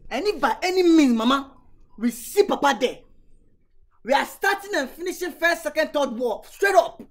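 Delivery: rally the troops, building to a shout; fired up. Acted. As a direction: daughter vowing war on Papa, fired up. Daughter vows war.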